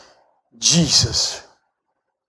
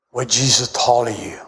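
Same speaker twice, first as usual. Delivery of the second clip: ordinary delivery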